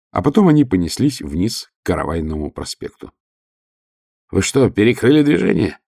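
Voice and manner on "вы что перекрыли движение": rising shout, much higher at the end; yelling through the wind. A narrator's reading. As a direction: shout it over roaring wind. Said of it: "завопил он сквозь ветер".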